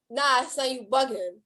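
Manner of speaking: New York street-slang accent. Shown as a demonstration. Host feeding the London guest a line to copy, New York accent. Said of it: "since you do New York".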